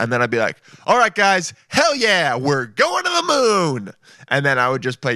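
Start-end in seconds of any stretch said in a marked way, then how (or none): 0.9-3.9 rally the guys like a frat bro; party-bro cheer to the crew; pumped astronaut. Pretend. His astronaut character after the briefing.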